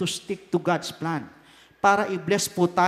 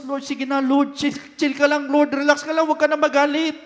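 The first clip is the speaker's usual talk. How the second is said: coaxing Moses; 5 semitones higher, 3 dB louder than usual. Acted. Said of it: "kung ipa-paraphrase po natin na sinasabi ni Moses".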